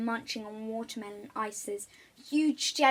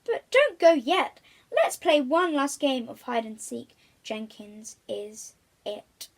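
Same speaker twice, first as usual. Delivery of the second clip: eager plea; 7 dB louder than usual. Acted. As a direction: keep them from leaving. Crocodile pleads eagerly.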